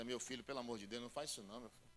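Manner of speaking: soft, pleading mother's warning; worried mother. Retold or imitated. Mother pulling her son aside, pleading softly.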